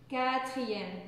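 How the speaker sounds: Quatrième said carefully as ka-tri-yem; model pronunciation. Shown as a demonstration. Teacher models the word after explaining the dropped E, carefully. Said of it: "on enlève le E et on laisse le I".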